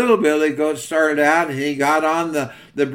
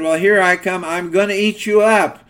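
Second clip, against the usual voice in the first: higher, raised troll threat; lightly acted, playful menace; storybook troll; 4 semitones higher, 3 dB louder than usual. Troll tells the middle goat he will eat him, mock menace.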